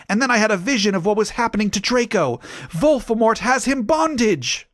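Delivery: high and breathless, rushing the vision part; overexcited teen vampire; high-pitched excited boy. Acted. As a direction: pitch it way up, rattle it off fast. Boy character replies dramatically.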